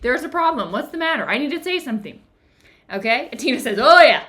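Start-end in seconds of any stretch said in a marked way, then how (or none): 0.0-2.2 higher-pitched fretting over a broken rule; agitated inner monologue. Acted. Voicing the ruminating monk's thoughts. 3.8-4.2 loud, higher-pitched quoted outburst; exclaimed reply. Retold or imitated. Quotes Tina's sudden reply.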